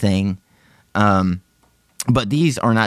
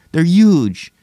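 high exclaim; 7 semitones higher, 5 dB louder than usual. Pretend. Repeat of the huge line.

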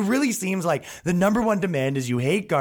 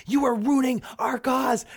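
high slow emphatic mock yell; 9 semitones higher than usual. Activist repeating himself at rioters, mock shout. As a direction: lay it on like a preachy activist. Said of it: "He goes".

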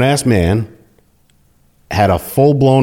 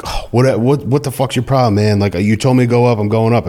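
indignant protest; 4 semitones higher than usual. Retold or imitated. Officer protests being called back down.

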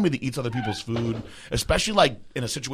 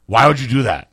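louder mock confrontation; retold stern demand; 6 dB louder than usual. Dave confronting the man who ate it, stern demand. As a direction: imitate a man demanding an explanation.

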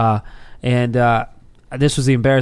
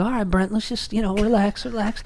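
talking self down; 7 semitones higher, 5 dB quieter than usual. Retold or imitated. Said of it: "I go".

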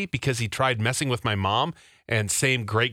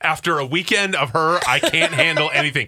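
mock exasperated Taylor; 3 semitones higher, 5 dB louder than usual. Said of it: "where Taylor goes".

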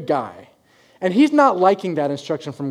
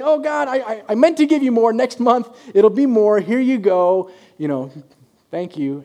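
sheepish prayer; 6 semitones higher, 5 dB louder than usual. Pretend. Sheepish prayer to God acted.

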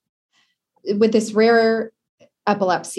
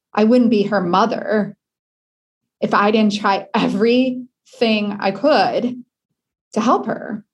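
holding back tears as she speaks of her daughter; emotional; 3 semitones higher than usual. Real, not acted. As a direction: voice lifting, slowed with emotion. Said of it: "Sorry, I'm getting emotional".

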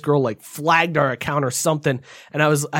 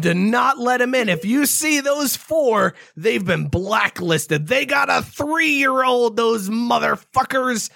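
lightly voiced petty manager, higher and slow; a hint of a smug manager plotting; drawn-out mock of a spiteful boss; 5 semitones higher, slower than usual. Imitating the vindictive park manager.

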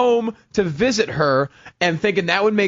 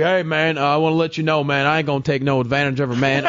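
Southern drawl; 3 semitones lower than usual. Retold or imitated. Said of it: "like, Elvis's ghost".

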